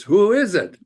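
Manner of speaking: squawked high and loud like a parrot; loud parroty squawk. Acted. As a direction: play the parrot calling at the door. Parrot repeats in joke.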